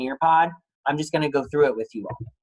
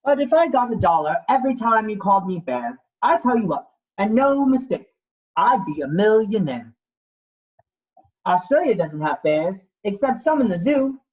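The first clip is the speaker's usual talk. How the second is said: lightly voiced little koala, higher, sing-song and fed up; a put-upon koala protesting his name in rhyme; mildly voiced cross little koala; indignant koala; 5 semitones higher than usual. Koala character lines in picture book.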